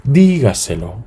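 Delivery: Dígaselo with the first syllable lifted; teacher marking the stress; stressed syllable demo. Shown as a demonstration. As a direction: lean on DÍ in Dígaselo. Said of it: "Es dígaselo".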